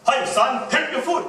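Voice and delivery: loud, high, hammed-up dad; exaggerated storytelling father voice; animated father. Shown as a demonstration. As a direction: call out to your son, animated and loud. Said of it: "Your father, you are telling a story".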